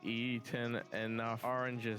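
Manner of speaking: a hint of a drunken pirate captain; Jack Sparrow voice. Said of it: "There is a Captain Jack Sparrow guy".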